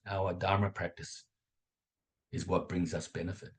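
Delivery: low, softened meditation guidance with long pauses; guided contemplation. Real, not acted. Teacher leading students through contemplation of death, low and quiet. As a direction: guide listeners gently inward, voice dropping low.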